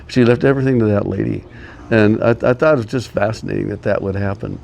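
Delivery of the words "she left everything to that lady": fast, laughing retelling; laughing disbelief. Real, not acted. Repeating the inheritance news, quick and laughing. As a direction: say it quickly through a chuckle.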